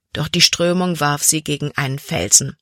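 usual speaking voice

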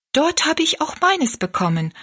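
put-on high, eager girl's voice; excited exclamation. A narrator's reading. Rosalie to the woman about her picture, exclaiming eagerly. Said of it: "rief Rosalie".

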